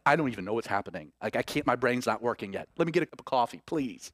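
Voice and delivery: low, fast sleepy mumble; a parent just woken, barely functioning; groggy. Retold or imitated. A groggy parent woken by a running kid, low sleepy mumble. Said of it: "Jesus is groggy".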